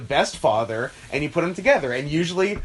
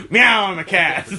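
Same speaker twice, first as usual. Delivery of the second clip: cat voice; 3 semitones higher, 6 dB louder than usual. Pretend. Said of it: "Is that good?".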